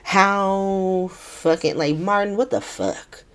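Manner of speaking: lightly acted exasperation, "how" dragged out; mock furious. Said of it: "um, furious. He's just like".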